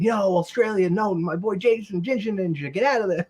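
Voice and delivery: high-pitched mock plea to a buddy; acted-out warning. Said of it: "I stopped and I said".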